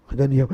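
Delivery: sharp surprised gasp; hushed gasp of realization; startled gasp. Acted. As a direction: gasp as if discovering it. Daniel discovering the prophecy.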